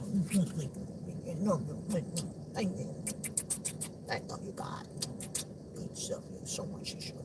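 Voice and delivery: very quiet, low mumble to God; muted mumbling. Retold or imitated. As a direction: mumble it under your breath, barely voiced. Reluctant reply to God, muttered.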